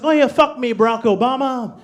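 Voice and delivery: hammed-up girlfriend in bed; imitating girlfriend's dirty talk. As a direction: put on an excited lover's voice.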